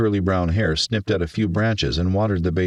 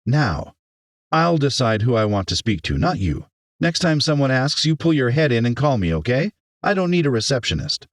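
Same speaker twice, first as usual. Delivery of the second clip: higher-pitched, firm dressing-down; stern mayor rebuking; 7 semitones higher than usual. Acted. Mayor reprimands the overstepping teacher, stern. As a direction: put her firmly in her place.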